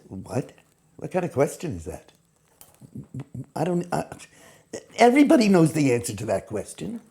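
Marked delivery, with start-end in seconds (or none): 0.1-4.0 scornful know-it-all. Shown as a demonstration. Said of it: "point of view that I'm the smartest person".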